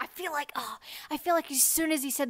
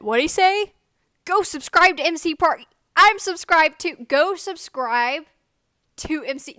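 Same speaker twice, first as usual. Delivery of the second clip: put-on high, loud kid repeating the call; loud mocking repeat; 5 semitones higher, 9 dB louder than usual. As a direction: bellow it back louder.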